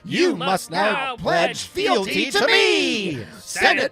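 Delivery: high, pompous cartoon pig tyrant; little pig voice. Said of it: "my Dave the Barbarian voice".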